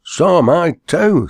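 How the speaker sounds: high, loud, panicked yelp; terrified cry. A narrator's reading. Terrified companion fleeing the hearse, high panicked yelp. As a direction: squeal it as you leap down and run. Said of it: "said his terrified companion".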